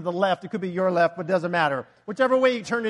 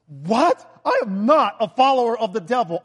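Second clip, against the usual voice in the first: mock indignant listener; 6 dB louder than usual. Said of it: "mock objection from listener".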